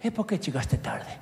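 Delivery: a hint of a stern Italian boss; mildly voiced boss asking why you're late. Italian boss scolding Dante for being late, Italian accent. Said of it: "jefe italiano que me dice".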